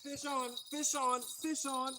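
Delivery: hushed and high, keeping it down; excited but hushed so fish stay calm; fishing whisper. Real, not acted. Hooked fish, hushed excited calls.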